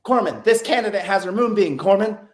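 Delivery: lightly voiced female candidate; quoting the girl. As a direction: relay her words with a slight lift. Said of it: "And the girl's like".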